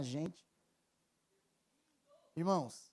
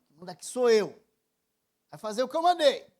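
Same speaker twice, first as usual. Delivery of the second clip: louder, hard scolding command; reenacting a stern scolding, louder; harsh father; 5 semitones higher, 10 dB louder than usual. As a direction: bark the order at the daughter. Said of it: "Eu fui duro com ela".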